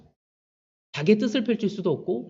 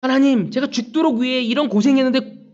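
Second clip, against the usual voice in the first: resentful complaint; 5 semitones higher, 4 dB louder than usual. Retold or imitated. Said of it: "하면서 하나님께 원망하지".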